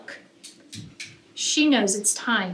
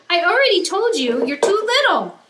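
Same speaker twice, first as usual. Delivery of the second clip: a touch of impatient big brother, raised; dismissive brother; 7 semitones higher, 5 dB louder than usual. Acted. Brother dismissing Lulu as too little, mildly impatient. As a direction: brush off your little sister. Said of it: "he says".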